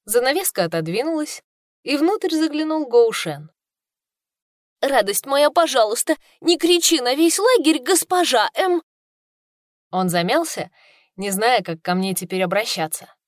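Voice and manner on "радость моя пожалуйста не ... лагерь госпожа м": мягко урезонивая, с запинкой на «госпожа»; лёгкий намёк на смущённого мужчину; слегка озвученный Гоу Шен. Acted. Мужчина урезонивает кричащую служанку. (Гоу Шен просит служанку не кричать, смущённо)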